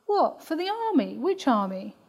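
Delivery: put-on a touch of a sceptical teenager pushing back; teen daughter. Daughter questioning her mother about the army, mildly incredulous.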